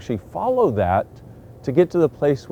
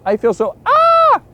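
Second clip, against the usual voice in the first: very high, louder, slow shout; 7 dB louder, slower than usual. Shown as a demonstration. Picking up another's energy, high slow shout. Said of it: "And you go".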